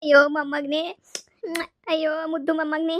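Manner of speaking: tearful wail of endearment; tearful crying. Acted. Grandmother to the grandson comforting her, crying. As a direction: cry out to a darling child, moved to tears. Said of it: "ಅಳ್ಬೇಡಿ ಅಜ್ಜಿ".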